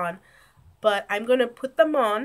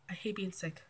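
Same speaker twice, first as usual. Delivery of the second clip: quiet grumble; 3 semitones lower, 14 dB quieter than usual. Real, not acted. Sick vlogger complains in an aside.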